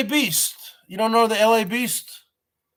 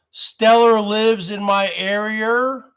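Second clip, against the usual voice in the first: slow, lightly put-on stepchild voice; redheaded stepchild voice. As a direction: draw it out slowly like the little redheaded stepchild. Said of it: "I'll say it like the little redheaded stepchild".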